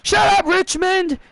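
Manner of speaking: irritated call-out. Acted. New tag champion tells the Richmond crowd off, irritated. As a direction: silence a jeering crowd.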